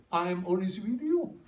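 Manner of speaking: each word drawn out very slowly; slow English quote. Shown as a demonstration. Pastor reciting the verse to the congregation, very slow. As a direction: savor the promise word by word.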